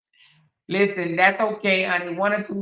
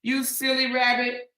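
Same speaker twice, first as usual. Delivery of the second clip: high, playful chiding; mock-scolding a silly one, pitched up; teasing; 5 semitones higher than usual. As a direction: tease in a raised, lilting voice. Teasing the commenter, first take.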